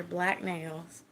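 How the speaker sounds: slight Texas twang on "black nails"; unplanned hint of Texan; Texas accent. Real, not acted. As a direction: let a little Texas slip into "black nails". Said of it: "Did you hear that Texas accent just then?".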